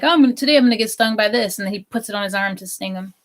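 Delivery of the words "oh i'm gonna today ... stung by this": quick, loud hyped YouTuber. Retold or imitated. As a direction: rattle it off like an eager host.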